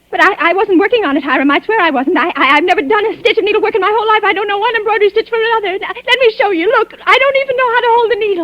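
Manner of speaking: panicked pleading stammer; frantic denial. Acted. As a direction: rush the words, desperate to be believed. Frantic denial to suspicious husband.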